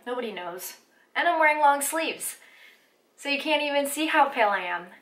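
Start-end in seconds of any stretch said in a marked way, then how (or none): 1.1-4.9 peppy, higher-pitched cheerleader delivery; lifted, bouncy cheerleader voice. Real, not acted. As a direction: cheer it out like a squad chant. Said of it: "Am I a cheerleader?".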